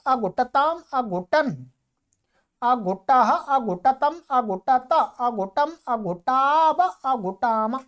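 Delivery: measured, rhythmic grammar drill; paradigm recitation. Shown as a demonstration. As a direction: recite the verb forms evenly.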